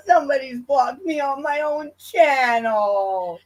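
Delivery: slow, drawn-out fake sobbing complaint; mock wail. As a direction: whine it out as if crying. Mock lament at being blocked.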